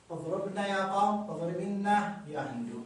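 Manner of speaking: اضربنا with short u, then short i, joined onward; connected forms, vowels shortened. Shown as a demonstration. Teacher shows reading without stopping, short-vowel joined pronunciation. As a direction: run each اضربنا into its يا, no long vowel. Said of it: "هذه في حالة الوصل".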